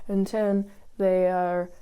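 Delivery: fading away. Shown as a demonstration. Reviewer mimics the being left further behind, voice fading. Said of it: "the softer, softer voice goes".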